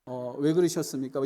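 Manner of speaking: a polite, mild-mannered complaint; gently. Retold or imitated. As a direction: ask kindly, without anger. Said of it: "그냥 상냥하게 얘기했겠죠".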